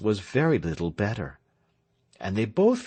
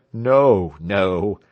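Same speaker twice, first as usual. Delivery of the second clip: bashful; 3 semitones lower, 7 dB louder than usual. A narrator's reading. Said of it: "said Tell, blushing".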